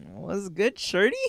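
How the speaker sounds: a light imitation of a Toronto guy's accent, rising on shorty; casual Toronto accent, mocking a guy chatting up a girl; lightly done Toronto slang voice. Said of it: "the Toronto accent".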